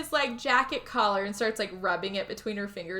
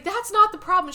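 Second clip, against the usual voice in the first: raised, higher retold retort; arguing; 9 semitones higher, 6 dB louder than usual. Husband arguing with his wife, imitated angry retort. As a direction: imitate an exasperated comeback, louder. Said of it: "they're arguing for a minute".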